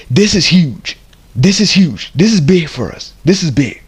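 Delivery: excited disbelief. Real, not acted. Excited about big news.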